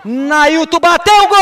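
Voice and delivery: loud, stretched goal call; explosive goal commentary. Real, not acted. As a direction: drag out the goal shout. Goal scored in live commentary.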